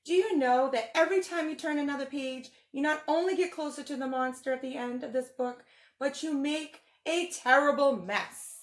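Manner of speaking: lightly voiced furry blue monster, fretful and pleading; Grover voice. Teacher reading the book to kids as a worried Grover. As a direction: read it as a nervous puppet monster begging the kids.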